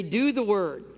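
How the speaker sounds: preacher calling out the line to be repeated; loud call to repeat. Shown as a demonstration. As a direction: lead the congregation in the response.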